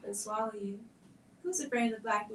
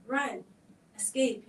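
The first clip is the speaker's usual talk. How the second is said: loud, higher shout to flee; urgent yell; 4 semitones higher, 7 dB louder, slower than usual. Acted. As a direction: cry out for her to run. Children yell warning.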